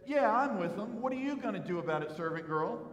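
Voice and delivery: lightly acted cocky challenge; mock defiance. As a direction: throw out a mock dare. Imagines Peter defying the servant girl.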